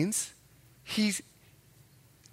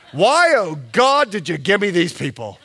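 mock lament; 7 dB louder than usual. Pastor imagines complaining to God.

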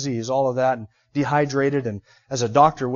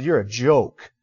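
lower, contemptuous demon voice; demon sneer; 4 semitones lower, slower than usual. Retold or imitated. Demon mocking the seven sons of Sceva, low and sneering.

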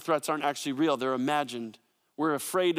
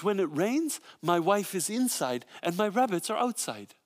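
lightly imitated Austrian German accent; Hans Peter's Austrian German accent; 2 semitones higher than usual. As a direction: play the soft-spoken principal with a touch of Austrian German. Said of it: "in his soft-spoken Austrian German accent".

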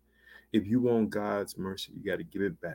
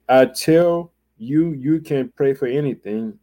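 Jesus' words stretched out, high and louder; slow preaching boom; 4 semitones higher, 8 dB louder than usual. Acted. Preacher booming the verse to the congregation, slow and loud. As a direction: proclaim each word slowly from the pulpit.

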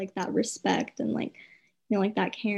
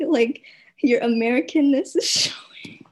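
whisper with laugh; 7 dB louder than usual. Real, not acted. Teasing remark, laughing.

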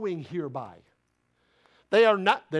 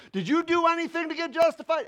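higher, charged-up rhetorical question; fired-up preaching; 7 semitones higher than usual. Real, not acted. Italian preacher getting charged up, near yelling. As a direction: challenge the congregation, charged up. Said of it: "if you think I'm yelling".

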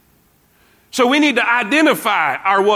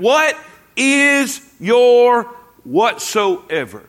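higher, louder build, then slow fall; preaching climax; 4 semitones higher, 3 dB louder, much slower than usual. Real, not acted. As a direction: lift it up, then drop to close. Preacher's rising climax question.

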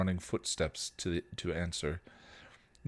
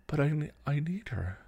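high, pleading protest; upset, raised-pitch outburst; tearful yelling back; 10 semitones higher, 3 dB louder than usual. A narrator's reading. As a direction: argue back through tears, breaking off. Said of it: "Dawn yelled back, tears spilling over".

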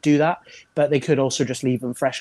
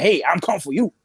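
lightly voiced Goldberg threat; a hint of Goldberg, coming for you; Goldberg impression; 4 semitones higher than usual. Shown as a demonstration. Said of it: "a Goldberg where it's like".

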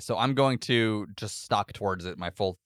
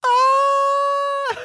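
very high loud yell; battle cry; 8 dB louder than usual. Acted. Warrior charging the creature with a high battle yell. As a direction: let out a shrill war scream. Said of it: "That's my battle cry".

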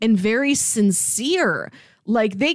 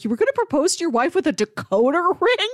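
high, amused disbelief through a laugh; 8 semitones higher than usual. Retold or imitated. Cameron teasing Gordon about a decoder ring, laughing disbelief. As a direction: laugh at the absurd idea as you ask.

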